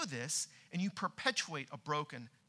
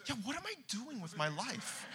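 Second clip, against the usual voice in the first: laughing self-doubt; 8 semitones higher, 4 dB quieter than usual. Retold or imitated. Laughing at his own doubt.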